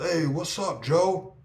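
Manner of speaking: high, casual put-on voice; imitating Mike. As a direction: mimic his friend's easy hello. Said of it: "He goes".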